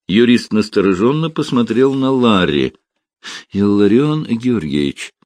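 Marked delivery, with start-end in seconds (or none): none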